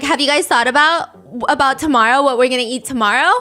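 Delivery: mock-nag like a mom; berating mom. Friend mimics a cast member nagging the group like a mom. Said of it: "berating them like a mom".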